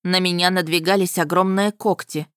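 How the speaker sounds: ordinary delivery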